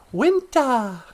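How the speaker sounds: winter with no R, English style; English accent. Shown as a demonstration. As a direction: drop the R in winter like a Brit. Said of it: "as they say in England".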